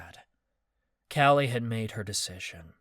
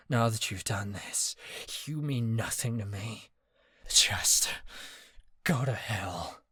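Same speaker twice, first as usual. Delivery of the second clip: a hint of a hushed sneer. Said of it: "he sneered".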